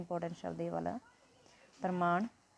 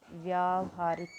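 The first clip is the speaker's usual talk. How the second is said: slow model word; slower than usual. Shown as a demonstration. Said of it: "तो क्या बनेगा ये?".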